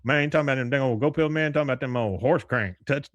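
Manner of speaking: Boomhauer rambling about go pills. Retold or imitated. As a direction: rattle it off in a quick slurred mumble. Boomhauer imitation.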